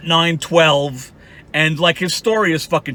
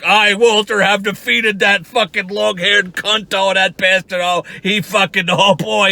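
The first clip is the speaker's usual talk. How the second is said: mocking Walter; slower than usual. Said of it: "you're like".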